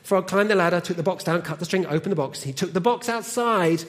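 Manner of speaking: animated storytelling with deliberate pauses; children's story reading. Acted. Reads a children's story aloud.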